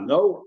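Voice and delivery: NO turned into a question. Shown as a demonstration. Teacher shows Rashi's reading, questioning NO. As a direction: say NO as if asking. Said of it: "question, which means yes".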